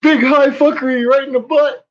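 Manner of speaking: high, loud, gleeful announcement; hammed-up clickbait title voice; gleeful mock title. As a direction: belt out the silly title, cackling. Mock title, gleeful laughing build.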